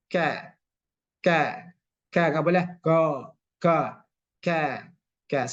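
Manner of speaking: ka with the lips spread in a smile, not ko; smiling kaf. Shown as a demonstration. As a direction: smile and say ka, never rounded like ko. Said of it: "senyum saja".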